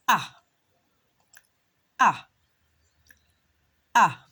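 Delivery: "Ah" held as an open short a; short a sound. Shown as a demonstration. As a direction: model "Ah" clearly for the class. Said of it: "That's the sound of the letter A".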